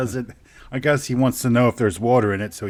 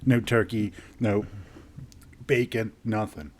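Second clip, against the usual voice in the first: picky cat voice; 3 semitones lower, 6 dB quieter than usual. Pretend.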